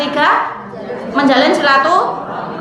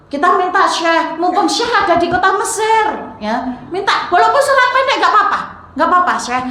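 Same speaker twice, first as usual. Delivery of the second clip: eager pleading; 5 semitones higher than usual. Acted. Mosque caretaker pleads with sheikh.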